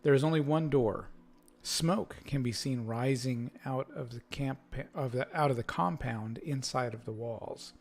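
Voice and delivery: measured scene-setting read-aloud; game master narration. Acted. Game master describing a fort to the players, narrating.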